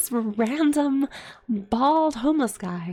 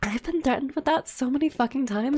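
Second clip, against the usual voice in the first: higher-pitched, defiant comeback; fed-up retort; 4 semitones higher, faster than usual. Retold or imitated. Retelling the answer to dad's threat, fed up. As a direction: replay standing up to a threat. Acted retort to angry dad.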